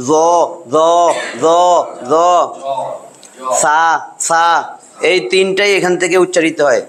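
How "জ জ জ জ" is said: "জ" rounded lips, the tongue tip at the teeth. Shown as a demonstration. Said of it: "যদি ঠোঁট গোল করে এটাই লাগান".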